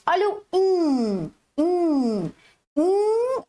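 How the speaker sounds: "in" held out, high and nasal; nasal "in" sound. Shown as a demonstration. Teacher showing the "in" sound to children. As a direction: hold the "in" sound long. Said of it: "o som do I".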